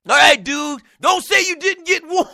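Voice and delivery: lightly voiced caller, friendly but warning; a hint of a laid-back dude warning his buddy; callers' warning voice. Fan on the phone warning the host, lightly voiced. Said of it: "doing my Bob for Martin's voice".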